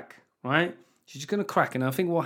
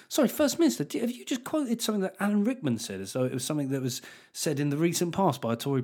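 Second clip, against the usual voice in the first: mock interviewer; 3 semitones higher than usual. Interviewer questioning quote.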